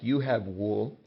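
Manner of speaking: plain statement before a tag; statement tune. Shown as a demonstration. Teacher modelling a statement for a tag question, stated evenly. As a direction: say YOU HAVE WOOL as a statement, leading into a tag. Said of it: "make a statement like".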